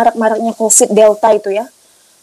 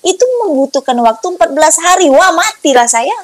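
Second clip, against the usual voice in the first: higher, insistent retold objection; alarmed protest; 3 semitones higher than usual. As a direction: argue back in dismay. Membantah dokter karena harus menunggu.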